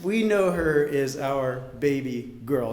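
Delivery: slow, tearful, holding it together; choking up. Real, not acted. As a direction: push through the lump in the throat. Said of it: "You feel it".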